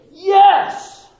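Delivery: high, loud cry of triumph; triumphant cheer. Retold or imitated. Preacher imagining the Pharisees' reaction, triumphant cheer. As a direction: whoop like you just won.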